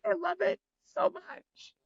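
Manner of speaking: gushing delight. Retold or imitated. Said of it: "I was like".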